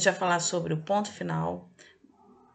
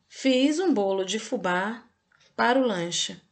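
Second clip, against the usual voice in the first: slow dictation; 3 dB louder than usual. Shown as a demonstration. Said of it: "Vou repetir a frase".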